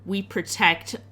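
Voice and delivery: slow, deliberate slogan reading; bold-text slogan. Acted. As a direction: read it out like a printed motto. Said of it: "in, in bold text".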